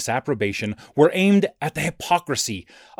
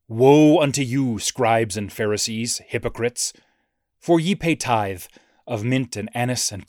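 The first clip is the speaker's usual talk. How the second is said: mock biblical prophet. Reads Christ's woes in declamation.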